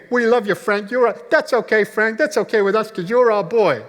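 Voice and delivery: loud, high rallying shout; crowd cheering. Retold or imitated. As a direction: cheer on a faltering performer like a whole auditorium. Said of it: "were just clapping and cheering".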